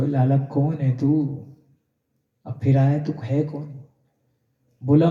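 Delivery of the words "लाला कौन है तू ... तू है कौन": softly. Acted. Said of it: "बाबा फिर नरमी से पूछा".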